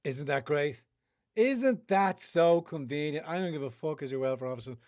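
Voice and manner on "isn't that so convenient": sarcastic mock.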